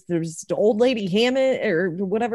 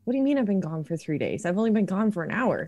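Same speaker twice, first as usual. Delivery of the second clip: fast, bewildered protest; rushed, disbelieving reply; confused panic; 3 semitones higher, faster than usual. Acted. Elliot protests to mom that she was gone an hour, fast and panicked.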